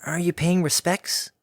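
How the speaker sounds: high, slow, careful filly; asking gently; young filly voice. Acted. Filly quiet question.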